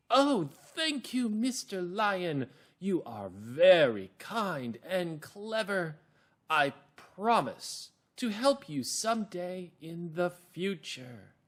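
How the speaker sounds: high, slow, grateful little mouse; small mouse voice. Shown as a demonstration. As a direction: thank the lion in a high little voice. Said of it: "So now it's the mouse's turn".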